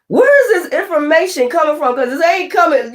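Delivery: high-pitched, incredulous questioning; baffled, demanding to know; shocked. Acted. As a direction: act out a stunned reaction. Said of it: "you looking shocked".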